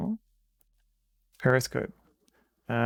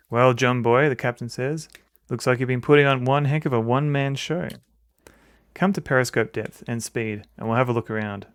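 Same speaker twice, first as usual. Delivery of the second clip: louder, commanding sub captain; 6 dB louder than usual. Acted. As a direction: read it as a gruff-free ship captain giving orders. Voices the captain in game text.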